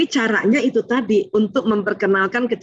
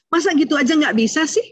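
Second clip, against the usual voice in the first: belittling; 5 semitones higher than usual. Retold or imitated.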